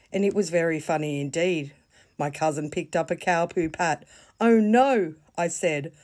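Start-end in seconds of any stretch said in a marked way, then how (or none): 4.4-5.1 a high, louder cry of playful dismay; mock alarm. Girl seeing her cousin about to throw poo, high alarmed cry. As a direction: squeal it as the poo comes at you.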